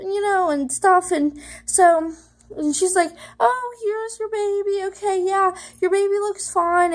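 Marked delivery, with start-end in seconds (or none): 3.4-6.9 lightly voiced reassuring technician, higher pitch; a hint of the technician's upbeat sing-out, starting high; ultrasound technician. Technician telling patient the baby is okay, lightly imitated reassurance.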